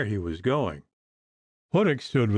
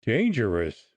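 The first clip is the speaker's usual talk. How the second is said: angry chuckle. A narrator's reading. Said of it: "with an angry chuckle".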